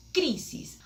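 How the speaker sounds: CRI-sis, pitch up then falling away; stress on first syllable. Shown as a demonstration. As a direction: lean on the CRI of crisis. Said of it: "acento en la primera sílaba".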